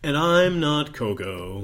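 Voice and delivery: slow announcer intro read. Pretend. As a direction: deliver it like a show host. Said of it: "I'm doing my intro voice at this time".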